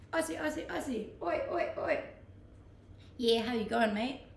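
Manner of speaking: lightly put-on Aussie chant and greeting; terrible Aussie accent. Shown as a demonstration. Streamer showing viewers she's trying to sound Aussie, terrible Aussie accent. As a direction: have a go at a bad Aussie accent. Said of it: "That was a terrible Aussie accent".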